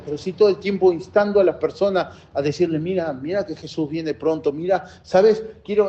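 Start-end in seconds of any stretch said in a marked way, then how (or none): 2.8-5.9 gentle invitation. Shown as a demonstration. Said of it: "no, no así".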